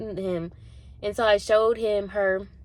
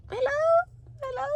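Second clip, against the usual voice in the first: incredulous hello. Retold or imitated. Incredulous at the guard.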